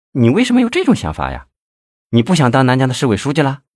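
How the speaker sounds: high, fast incredulous questions; astonished. A narrator's reading. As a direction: fire questions at a lover in surprise. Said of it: "胡艳芳惊讶地问".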